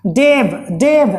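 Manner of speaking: डेव slowly, with a stretched vowel; isolated syllable demo. Shown as a demonstration. Teacher breaking a word into syllables, डेव drawn out. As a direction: sound out डेव as one separate syllable. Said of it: "डेव में एक".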